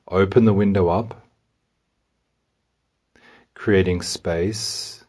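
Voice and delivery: measured meditation voice, pausing between steps; walk the listener calmly through each step; guided meditation. Real, not acted. Guide has listener open an imagined window to release tension, calmly.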